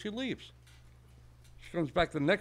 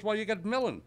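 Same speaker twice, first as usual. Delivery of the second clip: put-on high old-lady answer; little old lady; 6 semitones higher than usual. Old lady answering the shopkeeper's riddle, high voice. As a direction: pitch it up, simple and innocent. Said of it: "a little old lady".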